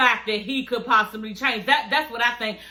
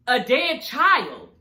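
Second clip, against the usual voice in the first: slow, drawn-out disbelief; appalled; much slower than usual. Retold or imitated. Scolding the psychic for bringing up a child's death, appalled. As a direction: stretch out each word in outrage. Outraged retort to the medium.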